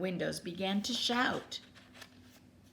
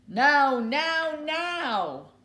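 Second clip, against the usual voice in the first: put-on loud, high proud little boy; tiny boy crying out; 9 semitones higher, 11 dB louder, much slower than usual. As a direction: puff up and cry it out. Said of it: "puffed up his chest and cried".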